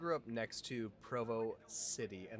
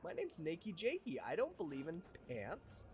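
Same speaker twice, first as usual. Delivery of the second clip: silly greeting voice; 7 semitones higher, slower than usual. Pretend. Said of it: "I'm like".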